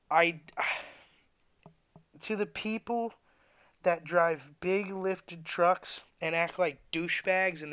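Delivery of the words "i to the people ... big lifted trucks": slow whispered aside after a sigh; sigh, then lean in and whisper. Real, not acted. Ranting worker turns to truck drivers, sighing whisper.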